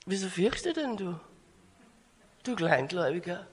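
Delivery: soft, unbothered rebuke; just-woken Jesus. Acted. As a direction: chide softly, barely awake. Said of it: "Jesus wird munter". (leise, gerade erst munter)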